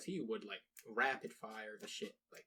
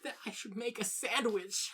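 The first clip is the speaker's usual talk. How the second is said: mock sexist guy voice; 12 semitones higher, slower than usual. Mocking a sexist commenter.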